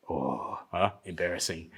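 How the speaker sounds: a deep, quiet taunting voice; mocking inner voice. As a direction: sneer it low and quiet like a smug inner critic. Mocking monkeys in his head.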